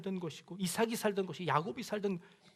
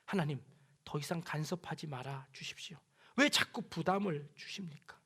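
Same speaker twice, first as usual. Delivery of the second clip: complaining voice; 4 semitones lower, 7 dB quieter than usual. Acted. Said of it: "원망의 목소리입니다".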